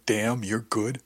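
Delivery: slow, drawn-out purring voice; imitating Alicia Alvarez. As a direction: stretch each word out slowly. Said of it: "You had Alicia Alvarez saying".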